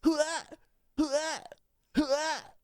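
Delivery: very high squeaky repeated question; silly high voice. Pretend. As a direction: pipe it up in a squeaky voice. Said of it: "I can't fucking deal with that voice".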